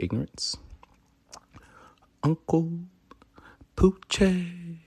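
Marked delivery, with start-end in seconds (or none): 2.2-4.8 whispered. Real, not acted. Host announcing own name dramatically.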